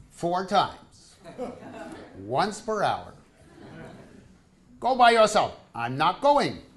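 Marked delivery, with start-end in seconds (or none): 4.8-6.6 wife refusing. Retold or imitated.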